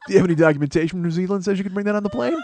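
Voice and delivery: triumphant retelling; gleeful replay. Retold or imitated. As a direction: replay the line with glee.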